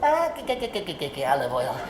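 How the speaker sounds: squeaky-to-low cartoon sailor voice, pitch swinging wildly. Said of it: "I'm gonna do Popeye".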